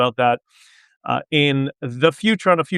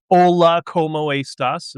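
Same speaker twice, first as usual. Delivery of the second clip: gringo Spanish accent; 3 semitones higher than usual. Shown as a demonstration. Streamer mimicking learners who mispronounce Spanish, slow gringo accent. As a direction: demonstrate badly pronounced gringo Spanish, syllable by syllable. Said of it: "gringo Spanish".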